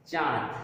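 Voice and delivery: चांद with a nasalised आ, no separate n; nasalised vowel. Shown as a demonstration. Teacher showing students the correct चांद, nasalised vowel without full n. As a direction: say चांद through mouth and nose together. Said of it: "क्या होता है?".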